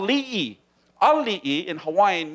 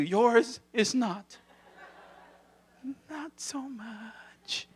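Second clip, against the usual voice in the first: deadpan; 4 semitones higher, 8 dB quieter, much slower than usual. Acted. Punchline, slow, then whisper.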